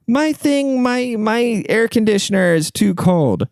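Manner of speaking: put-on high, slow British old lady; fretful high British voice, imitated; British accent. Lady repeating her complaint, high British accent. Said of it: "this lady's going".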